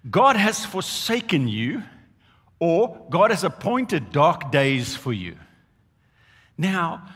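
ordinary delivery

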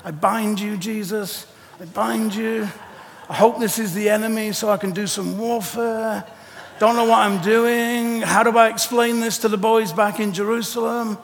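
nervous, half-laughing muttering; panicky Peter. Retold or imitated. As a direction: fret and dither, then give up. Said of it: "He's walking around going".

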